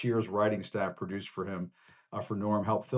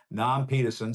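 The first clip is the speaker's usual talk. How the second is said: put-on Boston accent; 2 semitones higher than usual. Host imitating Cliff Clavin, light Boston accent. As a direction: say Nam Peterson like a Boston barfly. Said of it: "as Cliff Clavin might say".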